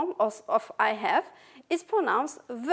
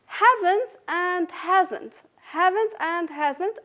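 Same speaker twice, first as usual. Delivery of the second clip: slow stress; 4 semitones higher, 3 dB louder, slower than usual. Shown as a demonstration. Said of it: "are strong forms".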